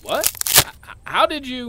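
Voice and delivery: stammering shock. Acted. Stunned after the fall.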